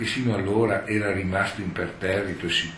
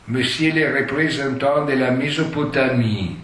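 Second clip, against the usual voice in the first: usher's exclamation; 5 semitones higher than usual. Retold or imitated. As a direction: proclaim the last guest grandly. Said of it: "E Luquier esclamò". (annuncio solenne dell'usciere)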